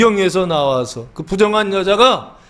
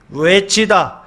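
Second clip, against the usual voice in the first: normal talking voice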